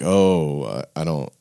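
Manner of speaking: imitating a puzzled listener; mock confusion. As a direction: stumble softly, as if lost.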